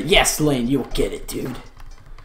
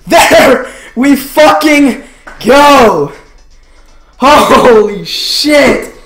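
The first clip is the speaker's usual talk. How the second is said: slow, raised celebratory yell; drawn-out triumph; 3 semitones higher, much slower than usual. Real, not acted. Streamer after finally getting the shiny, drawn-out triumph. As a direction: stretch each word out in triumph.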